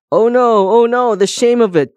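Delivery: very high, loud wail of shame; wailing cry. A narrator's reading. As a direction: cry out in high-pitched dismay. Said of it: "cried Comb".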